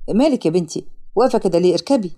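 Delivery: low-voiced man urging her along; young man. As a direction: drop the pitch for the man's part. Young man tells her to get in. (صوت شاب واطي)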